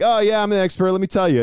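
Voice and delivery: high, loud, hammed-up know-it-all; mock bragging. Answering friends' questions as a pretend savant, mock boastful. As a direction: puff up like a fake expert. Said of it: "And I always be like".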